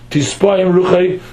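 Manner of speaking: slow "Tispoim", the added S held; "Tispoim" said slowly to show its extra S; extra S sound. Shown as a demonstration. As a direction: linger on the S in "Tispoim". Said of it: "with an extra suf".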